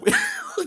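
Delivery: a high sudden laugh at the caller; burst of laughter. Real, not acted. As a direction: crack up in disbelief.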